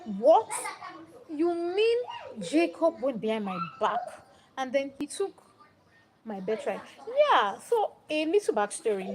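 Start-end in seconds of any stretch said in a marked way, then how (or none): 0.0-6.8 mildly outraged, incredulous Esau; mock angry. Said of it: "he was really angry. He was mad".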